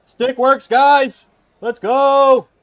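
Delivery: loud excited cheer. Real, not acted. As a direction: hype it up, shout. Celebrating finished build.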